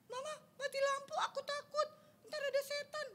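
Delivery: put-on high whimpering toddler calling Mama; scared little child. Toddler calls Mama when the power goes out, high and scared. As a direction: play a frightened kid in the dark. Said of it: "gitu ngomongnya, kata adik-adik balita".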